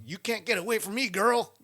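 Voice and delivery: high, fast mock threat to the girl; mock villain taunt to the fleeing girl; menacing movie villain. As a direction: growl it like a creepy stalker.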